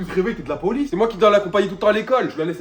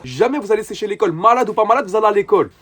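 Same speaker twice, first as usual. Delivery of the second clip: scolding; 3 semitones higher, 6 dB louder than usual. Acted. Brother lectures kids, raising voice.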